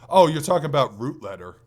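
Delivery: usual speaking voice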